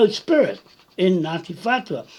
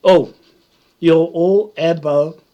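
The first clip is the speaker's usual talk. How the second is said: a loud, mocking "Oh" and then a fast rush; imitating a dismissive woman; mocking quote; 6 dB louder than usual. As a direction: mocks a woman who dismisses him, louder and fast. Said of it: "saying to me".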